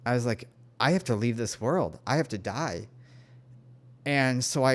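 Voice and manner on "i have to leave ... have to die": understated, retold resignation; mildly resigned surrender; resigned acceptance. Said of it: "I just accepted it".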